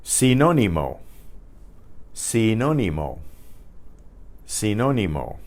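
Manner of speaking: Sinónimo as see-NO-nee-mo; careful Spanish Sinónimo, falling at the end; Spanish pronunciation demo. Shown as a demonstration. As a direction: model Sinónimo for learners, stressing NO. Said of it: "Say it to yourself".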